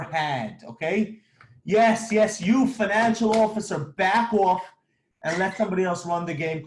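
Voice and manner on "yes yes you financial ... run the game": mock telling-off. Telling off a CFO.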